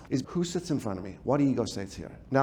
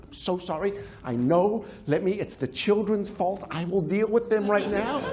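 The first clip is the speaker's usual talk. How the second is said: apologetic parent. Acted. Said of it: "Yes, critical parent".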